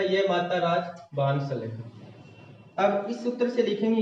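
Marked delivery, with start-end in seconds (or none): 0.0-2.9 drawn-out recitation of a memory formula; slow recited mnemonic. Shown as a demonstration. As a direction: chant the formula syllable by syllable, slowly. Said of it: "इसी सूत्र से लिखेंगे जो हमने लिखा था".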